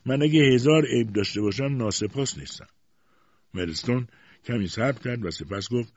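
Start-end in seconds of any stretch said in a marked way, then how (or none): 0.1-2.7 mildly tearful, raised higher voice; tearful reply. A narrator's reading. Wife denying she is ungrateful, mildly tearful reply. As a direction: protest with a touch of tears. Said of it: "گریه کنان جواب داد".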